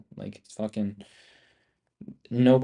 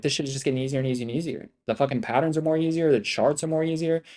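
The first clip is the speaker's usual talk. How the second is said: hyped self-quote; 4 semitones higher than usual. Retold or imitated. Streamer quoting his own amazement.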